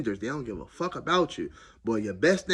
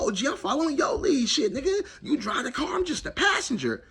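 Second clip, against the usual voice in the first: eager sidekick; 12 semitones higher than usual. Retold or imitated. Deferring to OG partner, high.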